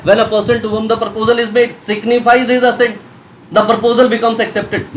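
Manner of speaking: slow, measured reading of the law text; slow definition reading. Shown as a demonstration. Teacher to students, reading the acceptance definition slowly. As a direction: read each word of the statute for dictation. Reads the legal definition aloud.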